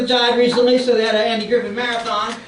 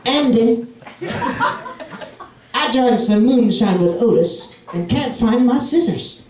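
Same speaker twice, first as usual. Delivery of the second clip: Lloyd impression. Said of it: "my impression of Lloyd".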